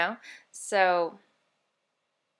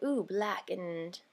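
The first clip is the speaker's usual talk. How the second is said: vampire mindset. Retold or imitated. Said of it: "in the vampire type of mindset".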